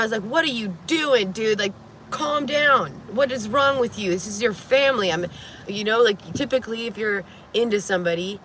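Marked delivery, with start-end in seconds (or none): 0.2-5.1 imitated exasperated protest; retold exasperation. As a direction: act out telling someone to get a grip. Retold exasperated reply in a quarrel.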